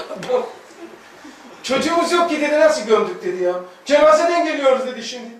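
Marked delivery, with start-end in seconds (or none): 1.6-4.9 high, louder incredulous retort; mock baffled husband, raised voice; exasperated husband. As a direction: throw the question back in disbelief.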